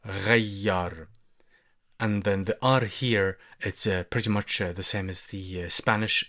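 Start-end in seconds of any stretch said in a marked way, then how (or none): 0.0-1.1 غير drawn out slowly with a throaty R; slow letter demo. Shown as a demonstration. Teacher slowing غير down to show the throaty R. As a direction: stretch out the R sound in غير. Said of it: "the letter Ra".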